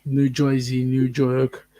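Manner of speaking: half-hearted New Jersey and New York accent; attempted New York accent. Shown as a demonstration. Host echoing co-host's example, attempted New York accent. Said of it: "I can't do that".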